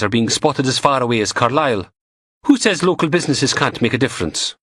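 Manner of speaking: a hint of a cheeky goth lab tech; Samantha voiced. A narrator's reading. Goth tech teasing Logan over coffee, lightly voiced.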